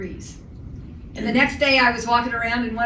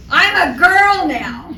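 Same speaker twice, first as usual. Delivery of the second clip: proud; 6 semitones higher, 8 dB louder, much slower than usual. Retold or imitated. Proud patient quoted.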